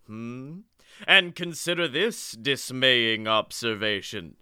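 slow spooky ghost host; understated sinister host voice; slow theatrical villain menace. Acted. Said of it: "I'll take ghost host".

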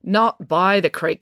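slow "Not by the creek" with weight on "by"; pointedly slow correction, "by" picked out; correcting stress. A narrator's reading. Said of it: "corrected Finn".

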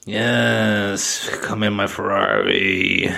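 seductress role.

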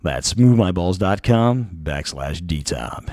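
slow sultry ad read. Acted. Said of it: "Gotta work into my sultry voice".

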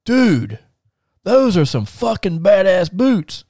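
high, slow, drawn-out admiration; imitating awed star. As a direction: stretch it out in mock awe.

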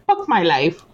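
put-on Hindi accent, "Fuck" said as "Puck"; north indian accent. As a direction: Indian English lilt on "Fuck my life". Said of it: "with a Hindi accent".

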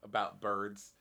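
conspiracy theorist voice. Pretend.

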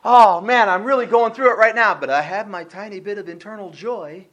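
put-on weak, resigned complaint; mock struggling. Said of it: "joy is small and struggling to survive".

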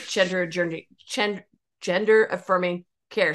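talking around a cough drop; words slurred by a lozenge; cough drop in mouth. Real, not acted. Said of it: "Sorry, I have a cough drop in my mouth".

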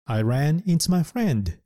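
teacher's slow example; slow example sentence. Shown as a demonstration. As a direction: lift it up and say it slowly. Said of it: "という意味です".

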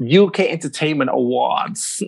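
put-on American accent, r's sounded. Shown as a demonstration. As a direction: do your best American accent. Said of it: "in your best American accent".

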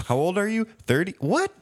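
very high, mock-astonished pollster; incredulous interviewer. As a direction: squeak out the disbelief of a put-on interviewer. Surveyor shocked by the answers.

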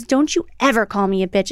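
low-pitched retold threat; mother's stern warning. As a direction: imitate an angry mom laying down the law.

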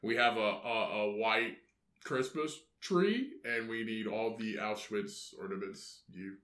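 hesitant, evasive caller placing an awkward order; sheepish customer. Acted. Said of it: "It's just like".

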